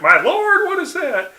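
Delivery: high, swooping exclamation; appalled director. Retold or imitated. Director reacting to Otto's tattoo, appalled. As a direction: cry out high in appalled disbelief. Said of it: "And he's like".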